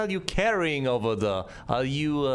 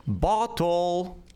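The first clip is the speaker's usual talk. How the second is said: exasperated repeat; 3 semitones higher than usual. Shown as a demonstration. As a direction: say "Bottle." again, impatient, pressing the word. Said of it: "did you not hear me".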